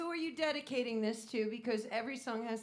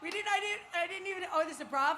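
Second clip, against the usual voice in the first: surprised; 8 semitones higher, 9 dB louder than usual. Real, not acted. Surprised at the drink.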